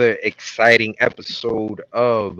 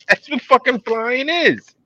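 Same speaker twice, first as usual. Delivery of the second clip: exasperated; 3 dB louder than usual. Real, not acted. Exasperated, laughing.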